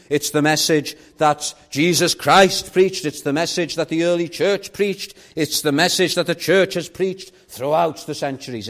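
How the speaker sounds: insistent sermon build, hammering each repetition; emphatic preaching. Real, not acted. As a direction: drive the point home from the pulpit. Preaches at full force.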